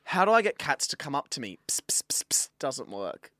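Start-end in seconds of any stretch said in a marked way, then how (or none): 1.7-2.5 whistly voiceless psst repeated; repeated unvoiced summoning sounds; cat-calling noise. Shown as a demonstration. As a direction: hiss little calls to a cat. Demonstrates calling cats over.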